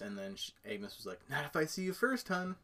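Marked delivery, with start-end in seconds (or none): 1.3-2.6 sweetly creepy neighbor. Retold or imitated. Quoting Agnes's creepy line.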